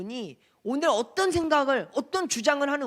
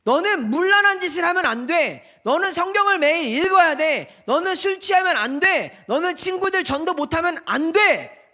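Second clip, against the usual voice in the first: stern law voice; 3 semitones higher, 4 dB louder than usual. Acted. Voicing the law's demands.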